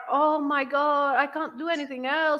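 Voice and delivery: tired British moan. Retold or imitated. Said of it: "when the British are".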